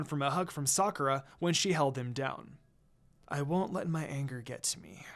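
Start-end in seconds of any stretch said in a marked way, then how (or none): 3.3-5.1 quietly to herself. A narrator's reading. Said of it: "I quietly say to myself".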